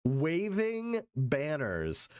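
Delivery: slow, sarcastic echo; mocking repeat. Echoing the speaker's rule with slow sarcasm. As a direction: drag it out in mock disbelief.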